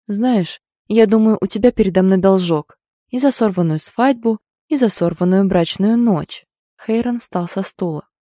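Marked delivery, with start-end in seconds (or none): 0.1-6.5 menacing hot whisper. Acted. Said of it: "От горячего шёпота".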